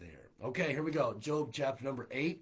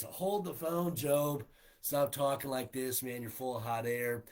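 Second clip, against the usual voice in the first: loud, higher-pitched scolding; exasperated friend butting in; blunt interruption; 3 semitones higher, 6 dB louder than usual. Acted. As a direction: cut him off and tell him off. Bildad jumps in, rebuking Job.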